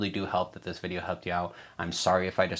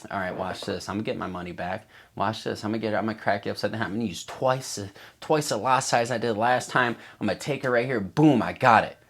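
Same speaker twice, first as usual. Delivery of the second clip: cocky revenge trader; 2 semitones higher, 4 dB louder than usual. Retold or imitated. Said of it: "revenge trading".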